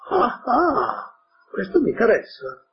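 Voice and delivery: high, delighted "ah, ah" of an eager fox; excited fox. Acted. Fox thrilled to hear there are no hunters, eager and excited. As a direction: perk up like a fox hearing good news.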